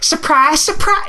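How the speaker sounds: high sung Liverpudlian, as a singer; mimicking a singer's song, bad Liverpudlian accent; crappy singer impression. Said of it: "in a shitty, really shitty Liverpudlian singer crappy impression".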